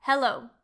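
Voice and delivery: clear, careful English "Hello." for learners to repeat; model pronunciation. Shown as a demonstration. Teacher models "Hello." for Spanish learners, clear and careful. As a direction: say "Hello." slowly with a crisp h, then pause. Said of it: "Puedes repetir después yo".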